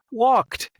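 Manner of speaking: "Walked" alone, pitched high; stress on Walked. Real, not acted. Storyteller revealing she could walk, "Walked" stressed high.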